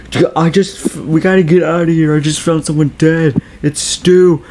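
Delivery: high, hurried mock-frantic plea; urgent, high-pitched acted alarm; mock panic. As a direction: blurt it out like a panicked movie character. Acting panicked character fleeing killer.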